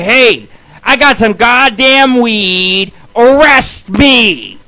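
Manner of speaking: slow, dopey mock voice; a hint of an idiot giving himself up; mocking dumb confession. Mocking friends who turn themselves in.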